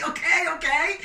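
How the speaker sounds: high, loud excited okay; excited shout. Real, not acted. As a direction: ride the crowd's noise. Crowd shouting the answer.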